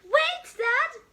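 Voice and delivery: high, loud call. Acted. Spot calls out for Dad to wait.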